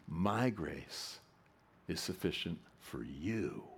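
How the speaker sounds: phrase in separate chunks, landing on a drawn-out "you"; stress on YOU. Shown as a demonstration. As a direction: pause between groups, then lean on "you". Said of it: "one word at a time and emphasize it".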